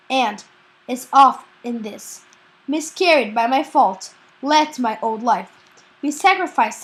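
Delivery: student reciting a Shakespeare monologue, projected; dramatic recitation. Acted. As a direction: recite the verse firmly, phrase by phrase. Recites Friar Lawrence's monologue.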